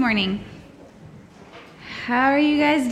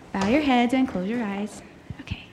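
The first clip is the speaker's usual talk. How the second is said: softer hushed prayer invitation; soft whisper; 6 dB quieter than usual. Real, not acted. Teacher settling children for prayer, whispered.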